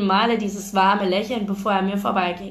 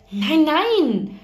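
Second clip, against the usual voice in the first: cutting in; 8 semitones higher, 4 dB louder than usual. A narrator's reading. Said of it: "schnitt er mir das Wort ab".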